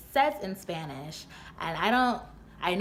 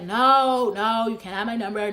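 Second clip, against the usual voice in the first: emphatic refusal; 3 semitones higher, 8 dB louder than usual. Retold or imitated. Woman refusing the man chasing her, loud and emphatic. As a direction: burst out with a firm refusal.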